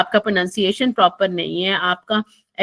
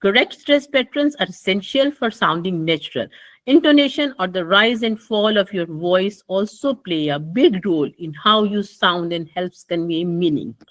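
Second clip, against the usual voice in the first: slow demonstration reading with rise and fall; stress and intonation; much slower than usual. Shown as a demonstration. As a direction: lift the key words and pause between phrases. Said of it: "मुझे इसको अदा करना चाहिए इस तरह से". (उतार-चढ़ाव के साथ धीरे-धीरे पढ़ें)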